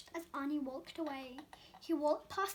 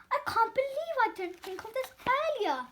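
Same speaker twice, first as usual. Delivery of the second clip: panting; 6 semitones higher, 3 dB louder than usual. Acted. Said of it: "Mister Bing panted".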